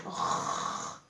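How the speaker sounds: "r" as a long throaty French consonant; son de la lettre. Shown as a demonstration. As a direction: hold the "r" sound without a vowel. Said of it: "On entend donc le r". (« r » prononcé « rrr », tenu)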